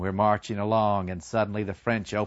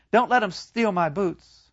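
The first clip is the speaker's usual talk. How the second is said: high, pleading; dying comrade; 9 semitones higher than usual. Retold or imitated. Wounded comrade pleading about his boots, high and pleading. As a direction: beg weakly for the boots. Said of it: "he looks up and says".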